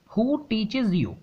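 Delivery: reading the sentence very slowly, word by word; slow classroom dictation of an example sentence. Shown as a demonstration. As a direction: dictate it so students can write along.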